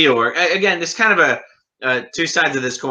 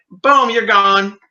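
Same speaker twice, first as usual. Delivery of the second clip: mock curt dismissal; 7 semitones higher, 5 dB louder, slower than usual. Mocking the Sea Org's dismissal.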